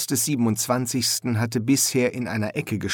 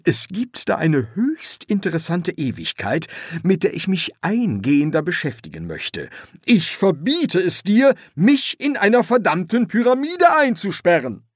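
raised voice building louder and higher; indignant protest; 8 semitones higher, 3 dB louder than usual. Acted. Dead pharaoh forbidding his son to lock him up, indignant. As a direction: build to a loud, high refusal.

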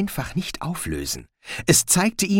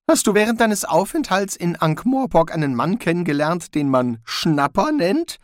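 Rincewind, wary; 6 semitones higher than usual. A narrator's reading. Rincewind asks.

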